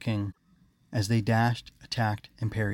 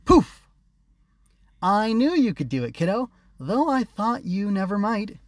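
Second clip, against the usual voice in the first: high, loud sprite voice; fairy voice; 11 semitones higher, 6 dB louder than usual. A narrator's reading. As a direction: pop in like a magic sprite. Magical butterfly appears.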